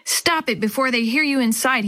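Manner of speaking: usual speaking voice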